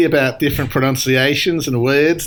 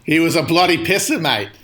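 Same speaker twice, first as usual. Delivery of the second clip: a light, hammed-up Aussie twang; mock Aussie bloke, laying the slang on lightly; Australian accent. Cohost slipping into the Aussie guest's accent, a light mock Australian accent. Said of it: "You do a good Australian accent".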